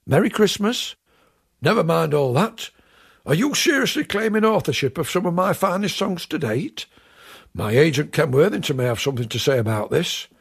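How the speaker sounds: lightly voiced indignant comic character; John Shuttleworth. Plays John Shuttleworth interrupting Graham.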